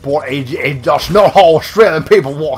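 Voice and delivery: rough stab at an Australian accent; attempted Australian accent. Shown as a demonstration. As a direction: try an Australian accent and do it badly. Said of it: "I can't really do much of an Australian accent".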